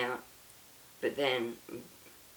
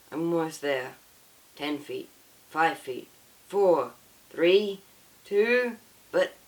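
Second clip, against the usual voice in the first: rising from tense to desperate, higher and louder; urgent countdown; 4 semitones higher, 6 dB louder, slower than usual. Acted. Father running to save his son from arrows, mounting desperation. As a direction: count down in mounting panic, climbing to a cry.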